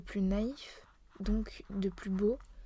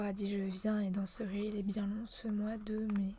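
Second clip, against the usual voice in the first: poem recitation; 4 dB quieter than usual. Shown as a demonstration. Poet reciting a poem known by heart, verse recitation. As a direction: recite verse from memory, evenly measured. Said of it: "que je connais par cœur".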